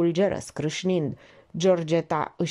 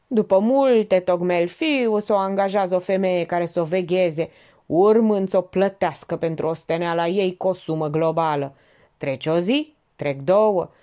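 put-on sing-song, child telling a tale; childlike storytelling tone; 4 dB louder than usual. A narrator's reading. The notary recounts Maupassant to the guests, childlike. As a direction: tell it like a kid's story. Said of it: "tonul pe care îl împrumută reflex copiii când spun o poveste".

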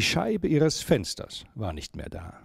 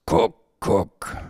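firmer cuckoo call, raised but not harsh; louder, gentle call; 4 semitones lower, 4 dB louder than usual. A narrator's reading. Third call to rouse Mia from her thoughts, louder and firmer. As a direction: call it out louder, a bit more insistent. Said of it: "beim dritten Mal lauter wurde".

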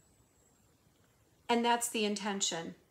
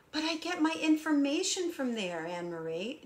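lightly voiced objector; 3 semitones higher than usual. Voicing a follower defending their Twitter habit, mild mock protest. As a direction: lightly imitate a follower making excuses.

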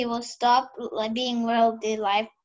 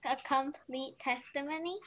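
barely audible; 3 semitones higher, 5 dB quieter than usual. Real, not acted. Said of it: "it's still a bit low".

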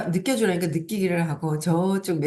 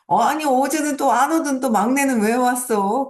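high, loud mock-surprised question; acted surprise; 8 semitones higher, 5 dB louder than usual. Parent greeting the youngest who rarely comes, acted with loud surprise. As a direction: act out being caught off guard, pitched up high.

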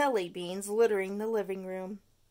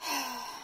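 sigh; 2 semitones higher, 4 dB quieter than usual. Acted. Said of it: "Stuart sighed".

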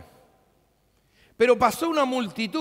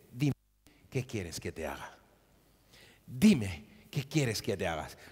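much lower, much softer tender question; gentle Jesus; 11 semitones lower, 4 dB quieter than usual. Retold or imitated. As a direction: ask it softly, almost confiding. Jesus voiced in the story.

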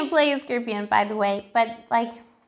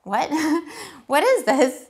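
baffled amazement; 4 semitones higher, 3 dB louder, slower than usual. Retold or imitated. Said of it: "this person was like".

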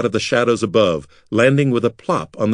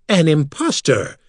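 cry out; 6 semitones higher than usual. Acted. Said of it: "Makar cried".

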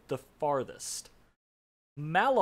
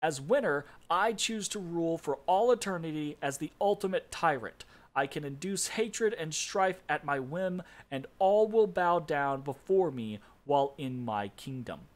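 mild triumph; 3 semitones higher than usual. Acted. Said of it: "Bane cried out triumphantly".

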